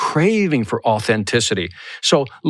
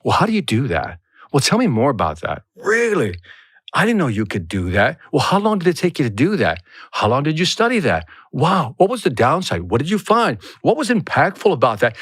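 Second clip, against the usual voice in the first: acting out genuine curiosity; intrigued follow-up questions; curious listener; 2 semitones lower than usual. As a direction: keep probing with interested questions. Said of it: "Be curious".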